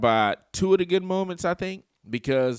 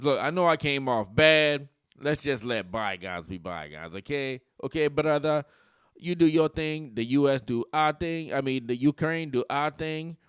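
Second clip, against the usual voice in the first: mock Zelensky accent. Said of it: "He talks like this".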